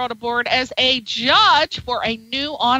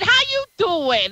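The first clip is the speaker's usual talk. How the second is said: higher-pitched mock New York accent; 5 semitones higher than usual. Shown as a demonstration. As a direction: put on a New York greeting. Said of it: "That could be New York".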